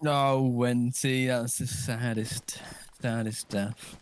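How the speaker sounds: slow, hushed mock mourning; mock sad. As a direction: drag it out like a fake lament. Mourning a teammate's death.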